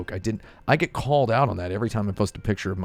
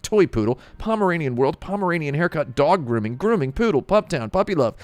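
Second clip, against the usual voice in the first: rising incredulous list; 9 semitones higher, 5 dB louder than usual. Real, not acted. Reads out listing hashtags.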